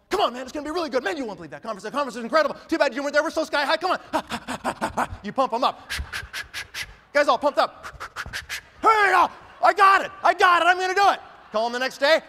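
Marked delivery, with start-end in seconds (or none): 0.1-5.1 mock pump someone up; hyped-up pitch. Leader calling a recruit, mock hyped-up sell. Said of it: "You call 'em". 8.8-11.2 high loud excited shout; pumped-up shout. Retold or imitated. Recruit all pumped up, shouting excitedly.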